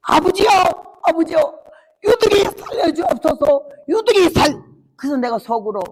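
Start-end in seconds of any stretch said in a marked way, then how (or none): 0.1-4.6 높고 크게 울부짖는 전라도 사투리 기도; 하나님께 매달리듯 울며 외쳐. Retold or imitated. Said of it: "울면서 기도를 하는데요". (전라도 사투리로 울부짖는 권사의 기도)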